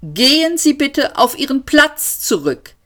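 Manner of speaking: lightly voiced machine, even and polite; a calm robotic announcer reading rules; metallic autopilot voice. A narrator's reading. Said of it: "metallische Stimme". (automatischer Pilot, metallisch und höflich)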